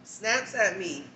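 slow, punched repeat of "Snaps at me"; snaps at me, slow and stressed. Shown as a demonstration. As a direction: drag out "Snaps at me" with weight. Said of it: "I'm gonna say snap because that's how I feel".

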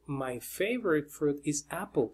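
"my favorite fruit is apple" lento y bajito; repetición en inglés. Shown as a demonstration. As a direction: repite despacio "my favorite fruit is apple", con "apple" como "ápol". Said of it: "o sea que se dice". ("my favorite fruit is apple" repetido pausadamente, como práctica)

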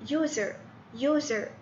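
USER repeated with a clear "yoo" onset; teacher testing the first sound of "user" aloud; pronunciation demo. Shown as a demonstration. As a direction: repeat "user" as a listening model, "yoo-zer". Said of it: "أسمع نطق ال-، الحرف".

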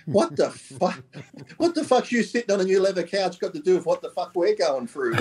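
incredulous quote broken by laughter; mock outrage, laughing through it; laughing disbelief. Retelling an exasperated reaction.

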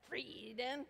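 Frieden in a hammed-up German accent; best German accent. Shown as a demonstration. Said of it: "With your best German accent".

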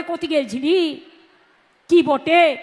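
Birbhum village Bengali, "গেছিলি" stretched and "কি বটে?" tagged on; rustic Birbhum lilt on "কি বটে?"; Birbhum dialect. Shown as a demonstration. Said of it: "ওরা বলে".

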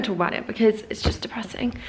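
fast, breathy whispered aside; whispering. Real, not acted. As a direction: whisper it quickly. Whispered aside about gloom.

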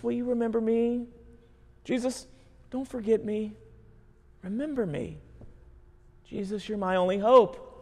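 pleading criminal. Acted. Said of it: "The criminal cries out".

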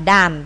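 "done" with a released t sound at the end; ending sound shown. Shown as a demonstration. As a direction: say "done" as dan-t, tapping out the final sound. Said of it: "câu C đọc là done".

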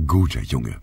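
usual speaking voice

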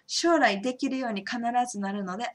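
ordinary talk, nothing marked

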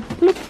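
high-pitched little "bloop"; imitated machine bloop. Worker showing how the packing machine works, playful high bloop. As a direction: mimic a machine popping out a label.

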